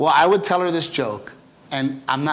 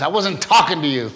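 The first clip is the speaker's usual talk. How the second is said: laughing punchline; 5 dB louder than usual. Retold or imitated.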